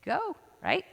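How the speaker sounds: high, bright-pitched go called out as the answer; emphatic go. Shown as a demonstration. Teaching a class, she answers her own question with an emphatic go. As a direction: call out go with a jump up in pitch. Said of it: "What's the opposite of avoiding?".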